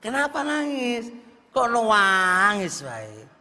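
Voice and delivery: tanya lebih tinggi dan lebih keras, mendesak; suami mendesak. Retold or imitated. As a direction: tirukan suami yang makin penasaran. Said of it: "wae ditanya". (suami mendesak istri yang terus menangis)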